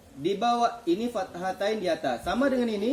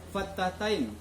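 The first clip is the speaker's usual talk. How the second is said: slow model pronunciation; 3 dB quieter, slower than usual. Shown as a demonstration. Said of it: "Tanda bacanya disebut".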